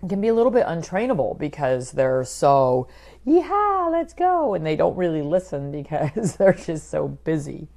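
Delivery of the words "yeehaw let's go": loud, high cowboy whoop; bouncy, hyper dog. Acted. Voicing an untrainable Irish setter, wildly excited. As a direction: holler it like an overexcited dog bolting off. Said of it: "very energetic, very bouncy".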